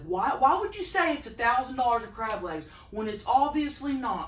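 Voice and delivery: mock mad viewer. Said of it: "one guy literally get mad".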